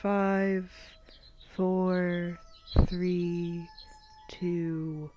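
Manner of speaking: measured body-scan guidance, long pauses; guided meditation. Acted. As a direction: count them through tensing and releasing.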